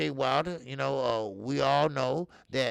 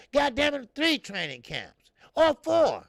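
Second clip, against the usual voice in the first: much higher and louder, fed up; exasperated yelling about training camps; exasperated outburst; 10 semitones higher, 7 dB louder than usual. Real, not acted. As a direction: blow up at the idea of a quick fix.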